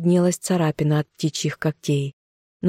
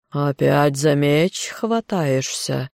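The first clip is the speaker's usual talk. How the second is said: hissing through teeth; slower than usual. Acted. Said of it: "Горыныч прошипел сквозь зубы".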